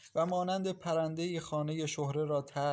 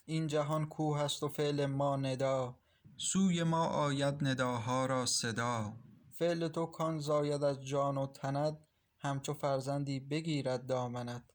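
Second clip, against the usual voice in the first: poem recitation. A narrator's reading. Reciting Rumi verse to herself.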